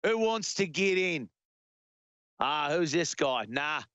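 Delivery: mock Aussie gatekeeper; comic Australian official; Australian accent. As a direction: turn him away in a put-on Australian accent. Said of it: "Australia goes".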